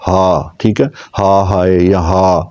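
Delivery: mild imitated sigh. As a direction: imitate a woman's weary ہائے. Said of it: "وہ کہتی ہیں ہا".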